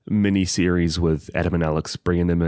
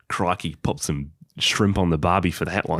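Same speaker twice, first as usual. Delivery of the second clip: lightly put-on Aussie cliché; mock Australian accent; 2 semitones lower than usual. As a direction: toss off a jokey Australian line. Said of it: "That's exactly what he sounds like".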